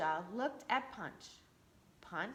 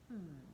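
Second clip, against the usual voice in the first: low thoughtful hmm; pondering hum; 5 semitones lower, 10 dB quieter than usual. Shown as a demonstration. Storyteller shows the kids how to ponder, low hum. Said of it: "I want you to go like this".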